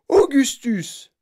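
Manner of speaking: long, drawn-out, loud call of the name; slow, stretched shout of Augustus; mother calling out. A narrator's reading. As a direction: call the boy from across the room. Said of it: "cria madame Gloop".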